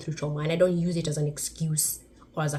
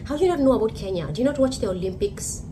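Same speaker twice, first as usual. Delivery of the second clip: exasperated; 4 semitones higher, 3 dB louder, faster than usual. Real, not acted. Exasperated rhetorical question.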